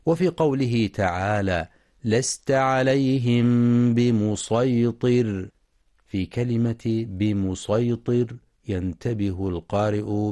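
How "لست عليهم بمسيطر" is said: slow melodic tajweed chanting; Quran recitation. Shown as a demonstration. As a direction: chant the verse slowly, drawing out vowels.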